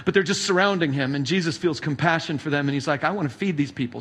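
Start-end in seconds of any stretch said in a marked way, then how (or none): 3.0-4.0 lower, softer, offhand joke version of the line; casual joking I wanna feed these people; mock picnic take. Shown as a demonstration. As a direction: throw it away like a picnic quip. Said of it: "See, I told you Jesus would be good for a picnic".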